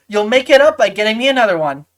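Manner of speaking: lightly voiced goblin, quick demand. Goblin orders a replacement ice cream, quick and demanding. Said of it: "and she says".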